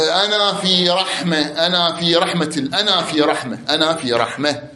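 "رحمة" تُلفظ رحمه بهاء ساكنة في آخرها; قفْ على "رحمة" بالهاء، ببطء; وقف بالهاء. Shown as a demonstration. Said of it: "تقول". (نطق رحمه بالوقف على الهاء)

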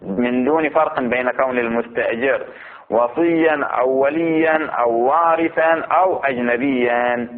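slow, drawn-out reading of a legal text; deliberate scholarly recitation; measured text reading. Acted. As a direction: read the ruling out slowly, stretching the vowels.

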